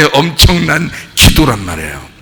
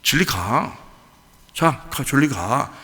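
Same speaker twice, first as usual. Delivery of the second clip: unbothered dismissal; 4 semitones lower, 8 dB quieter than usual. Retold or imitated. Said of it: "눈 하나 꿈쩍 안 하고".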